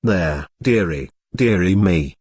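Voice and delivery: put-on soft, low comforting murmur to a crying girl. A narrator's reading. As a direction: soothe her gently, almost under the breath. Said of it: "murmured the little old lady".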